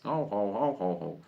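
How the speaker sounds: low, soft ho-ho-ho; mock chuckle. Speaker to audience about not understanding doctors, mock chuckle. Mocks patients hearing doctor as foreign.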